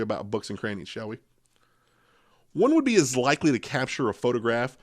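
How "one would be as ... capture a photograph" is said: measured storytelling read; story narration. Acted. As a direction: read it like a spooky tale. Reads scary story aloud.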